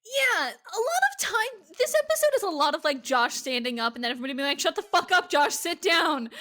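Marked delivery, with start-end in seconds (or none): 4.6-6.3 raised, higher mock scolding; loud retold telling-off; mock yelling. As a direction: imitate a crowd yelling someone down, laughing. Everybody yelling at Josh, retold.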